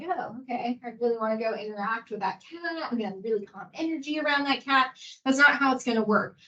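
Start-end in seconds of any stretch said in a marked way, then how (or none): 0.0-5.0 sarcastic aside. Retold or imitated. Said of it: "And you're like".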